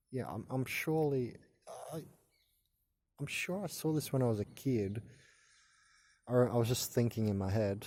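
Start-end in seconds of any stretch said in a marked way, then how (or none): 0.1-5.0 stumbling, stuttering restart. Real, not acted. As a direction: trip over the first words, stuttering. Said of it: "sorry for stuttering".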